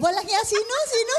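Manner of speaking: high, loud startled echo; playfully scandalized; mock outrage. Real, not acted. Mock outrage at volunteer's answer.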